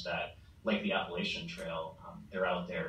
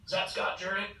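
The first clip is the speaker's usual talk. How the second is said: imitated holler; 12 semitones higher than usual. Hiker hollering out to the passing runner at night, imitated holler. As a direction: mimic someone calling out from afar. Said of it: "a thru hiker would be hollering out".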